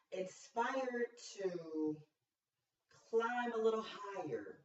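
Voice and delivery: slow, building inspirational refrain with long pauses; mock motivational speech. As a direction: build each phrase like a pretend pep talk. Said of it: "Wrong speech".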